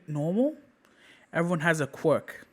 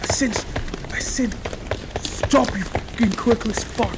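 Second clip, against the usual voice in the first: higher, heated snarl; angry bully; 4 semitones higher than usual. Acted. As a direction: lash out at him in anger. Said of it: "Bakugo getting angry".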